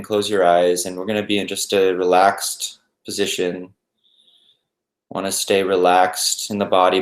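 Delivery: calm, even meditation guide with long pauses; unhurried, settled guided-meditation voice. Acted. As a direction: ease listeners into stillness, leaving space between phrases.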